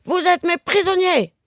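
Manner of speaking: loud, high threatening snarl; the pirate woman threatens her prisoners loudly; menacing growl. A narrator's reading. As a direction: threaten them, the fun is over. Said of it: "gronde-t-elle d'une voix menaçante".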